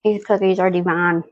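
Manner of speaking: talking while chewing; mouth full. Real, not acted. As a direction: speak around a bite of cookie. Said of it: "I don't wanna talk with my mouth full".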